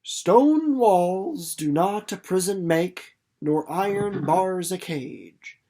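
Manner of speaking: slow, measured poem recitation, leaning on stone; poem recited. A narrator's reading. Winnie recalling an old poem outside the jail, slow recitation. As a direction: recite it like an old remembered verse. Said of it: "lines from an old poem".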